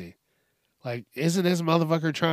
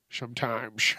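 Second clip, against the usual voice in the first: a cracked, slurred "Sometimes."; voice cracking; 3 semitones lower, 5 dB quieter than usual. Real, not acted. Late-night podcaster, tired, voice cracks on a word. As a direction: let "Sometimes." crack and slur. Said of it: "Did you hear that?".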